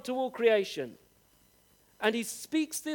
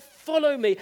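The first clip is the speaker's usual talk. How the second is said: a louder, raised call of follow me; voicing Jesus calling; 4 semitones higher, 6 dB louder than usual. Preacher voicing Jesus calling the disciples, raised call. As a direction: call them like Jesus by the sea.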